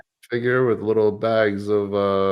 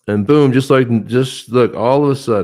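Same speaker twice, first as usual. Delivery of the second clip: excited; 5 semitones higher, 9 dB louder than usual. Real, not acted. Celebrating the win.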